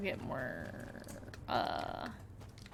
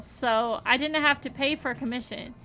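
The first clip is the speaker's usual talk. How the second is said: put-on folksy country accent. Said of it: "I just had an accent all of a sudden".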